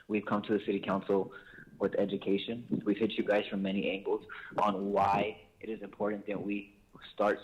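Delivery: winded, short of breath. Real, not acted. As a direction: talk while catching your breath. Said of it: "I'm out of breath".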